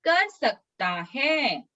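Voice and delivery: slow, stretched words settling at the end; slowly, for repeating. Shown as a demonstration. Teacher leads children repeating the memory verse, slowly. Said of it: "मैं धीरे धीरे बोलूंगी".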